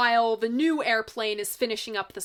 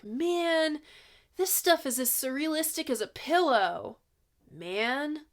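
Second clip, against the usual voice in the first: San Francisco hippie voice; 3 semitones higher than usual. Retold or imitated. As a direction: talk like a mellow sixties hippie. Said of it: "my default San Francisco hippie voice".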